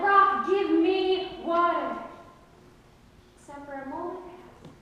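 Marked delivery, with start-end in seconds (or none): 0.0-2.0 slow, solemn command, in a voice unlike his own; a lightly voiced Moses, slow and commanding; Moses commanding the rock. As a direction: order the rock slowly, with authority. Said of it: "and he said".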